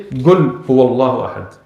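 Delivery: "قل" said "gul" in the recitation; qaf as gaf. Retold or imitated. Imitating a Yemeni brother leading prayer, qaf as g. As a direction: open "قل هو الله أحد" with a hard g. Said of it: "they make the qaf gaf".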